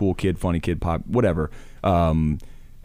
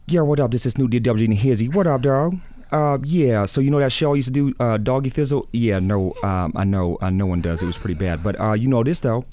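higher, laid-back rapper voice; impression of a rapper; 3 semitones higher than usual. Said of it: "that was a great rapper".

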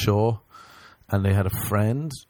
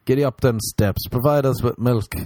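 hammed-up bedroom coaxing, slightly raised; mock dirty talk; 4 semitones higher than usual. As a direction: urge on a lover, jokingly. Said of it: "That's my dirty talk".

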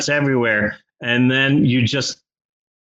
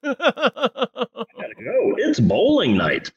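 bad acting; 8 semitones higher, slower than usual. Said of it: "With no emotion whatsoever".

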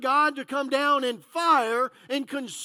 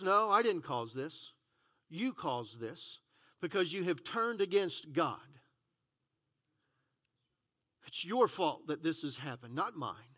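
Elijah rebuking; 8 semitones lower, 8 dB quieter than usual. Acted.

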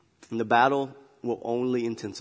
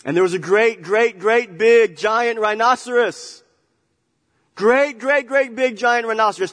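great, great big said much higher and louder, slow; booming, larger than life; big booming storytelling; 10 semitones higher, 9 dB louder than usual. Acted. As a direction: boom it out like a giant beast. Preacher hams up huge rhinoceros.

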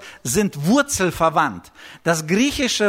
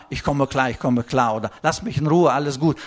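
fake composure; 5 semitones lower, faster than usual. Hiding anger behind a low mock calm. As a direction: pretend you're fine, voice dropped low. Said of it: "nach außen zeigst du eine Nummer".

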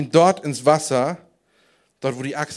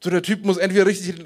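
ordinary delivery

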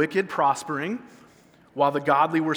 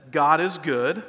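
preacher's call to the church; call line; 3 dB louder than usual. Shown as a demonstration. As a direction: call out God is good as the leader's call. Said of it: "One person says".

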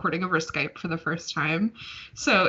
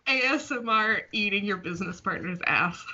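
laughing. Real, not acted. Joking through laughter.

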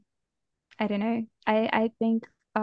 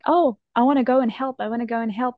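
eager excitement; 2 semitones higher, 3 dB louder, faster than usual. Retold or imitated. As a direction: burst out eagerly, then settle. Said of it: "and how excited I was".

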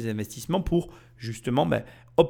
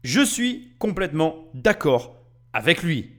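robot voice; 3 semitones higher than usual. Pretend. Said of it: "je parle comme un robot".

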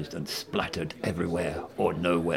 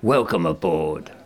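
proclaiming; 5 dB louder than usual. Acted. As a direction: boom out the verdict. Chief proclaims the new hire.

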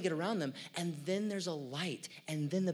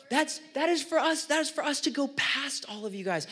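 much higher and louder, riled up; worked-up rant; 9 semitones higher, 6 dB louder than usual. Real, not acted. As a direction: push it up high and loud like a peak of the rant. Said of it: "you're getting me all worked up".

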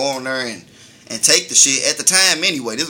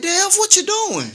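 imitating grandma; 3 dB louder, slower than usual. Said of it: "She was like".

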